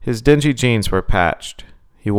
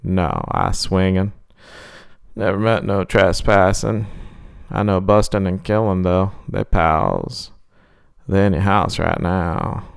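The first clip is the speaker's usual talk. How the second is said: creepy clown. Acted.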